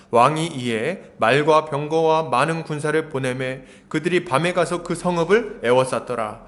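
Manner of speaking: measured, level-toned Bible reading; scripture reading. Real, not acted. Pastor leads congregation reading the passage, scripture reading. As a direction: read it out evenly, drawing out phrase ends.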